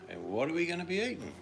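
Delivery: high, loud, eager yelp of a question; be the dog bouncing into the car, thrilled; excited dog voice. Retold or imitated. Dog jumping into the car asks its owners, high and loud. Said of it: "jump in the car and say".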